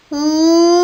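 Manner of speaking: high roar shaped into a name; lion roar. A narrator's reading. Lion roaring her name.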